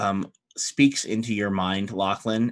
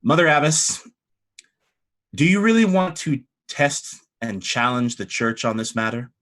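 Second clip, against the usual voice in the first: stern challenge, opening higher and louder; less polite; 3 semitones higher, 5 dB louder than usual. Acted. Hope Master warns abbess against challenging the church, niceties dropped. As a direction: drop the niceties and press the point. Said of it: "drops the nicety a little bit".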